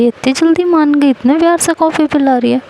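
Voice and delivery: as if she can't believe her luck; surprised girl wondering why Isha turned sweet. Retold or imitated. Anvi's surprised quote.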